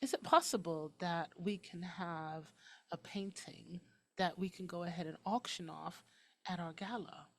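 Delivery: soft, polite hint of an English twang; nice little English twang. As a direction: make the request quietly with a light English lilt. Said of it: "in my nice little voice, I think I might have put a little English twang on that".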